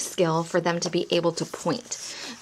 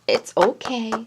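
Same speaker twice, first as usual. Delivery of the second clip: reassuring. Shown as a demonstration. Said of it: "I always try to add the pat".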